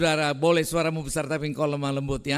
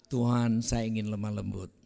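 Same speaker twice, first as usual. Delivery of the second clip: lower, smooth and restrained prayer; gentle, refined; 3 semitones lower than usual. Shown as a demonstration. Preacher showing the congregation how to pray it gently, smooth voice. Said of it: "haluslah bilang".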